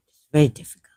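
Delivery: breathy whisper, voice almost gone; a real, weary whisper. Real, not acted. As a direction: whisper it as if too weary to speak. Overwhelmed ex-believer sighing.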